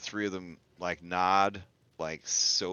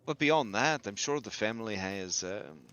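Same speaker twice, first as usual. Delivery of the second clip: lightly voiced rumour-sharer; measured informant. Informant telling players of a secretive book club, measured character voice.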